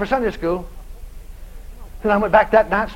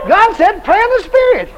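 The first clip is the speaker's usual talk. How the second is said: loud, high preacher's command; raised-voice insistence in a retelling; emphatic command; 9 semitones higher, 6 dB louder than usual. Retold or imitated. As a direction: declare it forcefully, voice raised. Insistent order acted in retelling.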